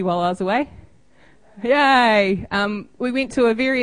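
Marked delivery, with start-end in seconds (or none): 1.6-2.5 excited cheer. Real, not acted. Mock cheering her own birthday.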